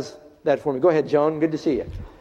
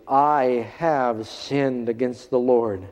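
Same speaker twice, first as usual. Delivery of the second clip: simply; 4 semitones lower, much slower than usual. Retold or imitated. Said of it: "David says very simply".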